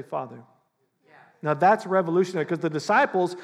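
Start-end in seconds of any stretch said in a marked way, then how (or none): 0.0-0.4 Father said softer and lower, tender. Shown as a demonstration. Preacher showing coming to God, tender Father. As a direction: say Father gently, like a child to a dad. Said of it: "you come to him boldly and you say".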